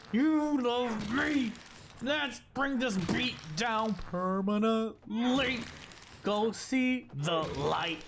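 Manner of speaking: slow drawn-out hammed-up crooning while hitting; mock tender taunt. Player crooning at the enemy he pounds. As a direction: croon lovingly while beating it.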